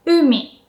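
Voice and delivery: umi with U pushed high, mi dropped; exaggerated pitch accent. Shown as a demonstration. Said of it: "if I have to exaggerate it".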